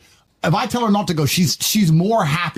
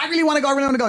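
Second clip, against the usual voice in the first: put-on high whiny girlfriend pleading; mock a pleading girlfriend; mimicking girlfriend; 10 semitones higher, much faster than usual. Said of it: "And she's like".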